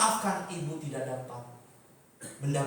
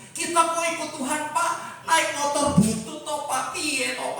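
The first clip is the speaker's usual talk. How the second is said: higher-pitched plaintive protest; mock griping; 4 semitones higher than usual. Preacher mimics believer grumbling about old motorbike, plaintive. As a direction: play a believer feeling short-changed.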